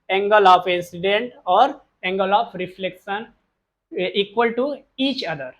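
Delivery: each word stretched out slowly; slow dictation. Shown as a demonstration. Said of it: "हम कह सकते हैं कि". (बहुत धीमे, बोलकर लिखवाना)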